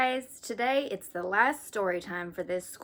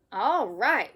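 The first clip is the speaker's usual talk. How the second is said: excited yell; 3 semitones higher, 8 dB louder than usual. Acted. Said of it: "yelled Arthur".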